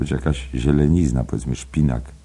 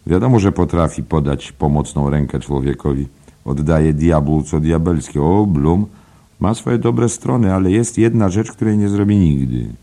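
a lightly raised, confiding pub gossip; gossiping barfly; 5 semitones higher, 6 dB louder than usual. Acted. Nosey Flynn gossiping to Byrne, lightly raised pub voice. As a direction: lean in and spread the rumour. Flynn praises Bloom, with a catch.

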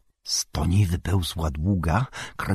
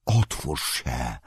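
commanding; 5 semitones lower, 4 dB quieter, much slower than usual. A narrator's reading. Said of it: "tonem władczym z rosnącym gniewem".

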